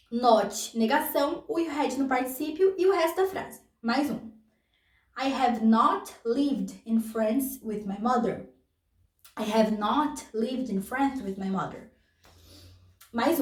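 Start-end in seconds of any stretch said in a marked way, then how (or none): 5.2-8.5 slowed for learners; careful slow model. Shown as a demonstration. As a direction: read it out word by word. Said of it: "repeats example sentence".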